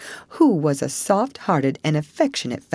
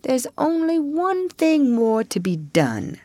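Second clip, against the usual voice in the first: gratified badger; 9 semitones higher, slower than usual. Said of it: "continued the gratified badger".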